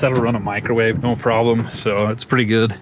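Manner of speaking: shivering in the cold. Real, not acted. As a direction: talk while shivering from cold. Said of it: "Sorry, I'm freezing out here today".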